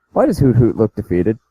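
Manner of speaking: full-volume question, clearly audible; audible question, right on the mic; speaking into the mic. Real, not acted. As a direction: repeat it up so everyone can hear. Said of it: "you need to talk in your mic".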